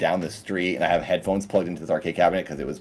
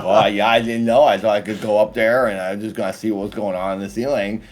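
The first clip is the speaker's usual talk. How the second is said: dopey character voice; 2 semitones higher, 3 dB louder than usual. Retold or imitated. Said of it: "this guy's just stupid".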